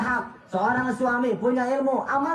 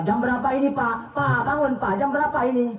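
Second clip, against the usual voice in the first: nagging wife; 4 semitones higher than usual. Retold or imitated.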